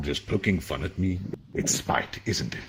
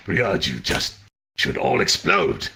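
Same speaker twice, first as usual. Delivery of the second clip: shouting; 4 dB louder, slower than usual. Acted. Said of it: "I should shout this".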